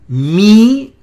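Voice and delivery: Mi-ha-yahu spelled out syllable by syllable; stress on YAHU. Shown as a demonstration. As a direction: demonstrate Mi-ha-yahu slowly in separate syllables, accent on yahu. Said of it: "Noten que el acento está aquí".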